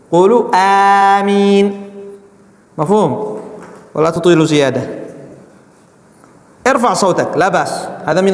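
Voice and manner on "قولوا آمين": steady, moderately held amen; proper amen. Shown as a demonstration. Teacher showing boys how to say amen. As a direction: model the right amen.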